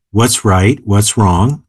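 ordinary delivery

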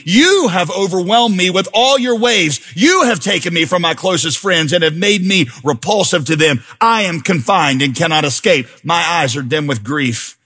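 grave, steady scripture reading; lament reading. Acted. Preacher reading the psalmist's lament aloud, sombre and heavy.

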